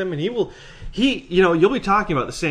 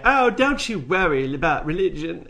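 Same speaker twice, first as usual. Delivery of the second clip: slow, smug reassuring sign voice; mock-soothing smarmy tone; smarmy mock quote; 4 semitones higher than usual. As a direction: read it like a smarmy bus sign. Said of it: "smarmy fucking bus signs that say".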